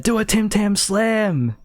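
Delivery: high-pitched mock call from the crowd; imitated crowd heckle. Someone in the crowd goads her, imitated call. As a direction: act out egging someone on.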